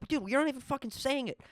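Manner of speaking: a hint of a mocking friend. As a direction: needle him like a buddy catching him out. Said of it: "And then they're like".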